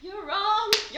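high, loud triumphant gotcha; spring the reveal with glee; delighted to have fooled her; gleeful gotcha. Real, not acted. Gleeful reveal of guessing game.

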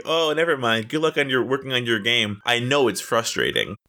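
imitating passive-aggressive sympathy; mock-kind, with a hidden dig; fake nice. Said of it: "trying to be so nice and so fake".

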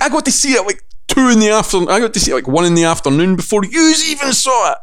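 high, sing-song one-upmanship; teasing, high, childish gloat; gloating boast. Retold or imitated. Gloating reply to rival outlets.

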